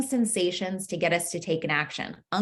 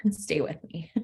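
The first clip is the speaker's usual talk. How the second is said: laughing whisper to the crowd; hushed, giggly plea to stay with her; whispered aside; 2 semitones lower, 6 dB quieter than usual. Real, not acted. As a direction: drop to a whisper through a laugh.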